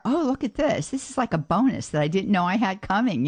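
mock-cheerful grateful take on a payroll check; delighted surprise. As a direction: act pleasantly surprised by found money. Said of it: "two ways that we can look at it".

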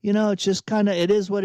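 high-pitched helpless shrug; resigned rhetorical question, nothing to be done. Acted. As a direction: throw your hands up, pitch lifted. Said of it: "throw your hands up in resignation".

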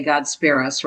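SPARE US in two parts, Jersey style; mother's Jersey "God spare us"; Jersey accent. Shown as a demonstration. Quoting how she would say it, Jersey accent. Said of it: "as she would say".

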